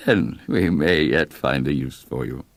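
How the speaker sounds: lightly voiced courteous menace; a hint of a veiled threat; polite mayor hinting at danger; aloof village mayor.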